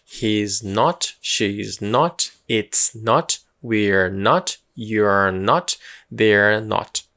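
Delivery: He's not with a rising not, clearly; model pronunciation again. Shown as a demonstration. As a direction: repeat each form like a drill. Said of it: "Mais uma vez".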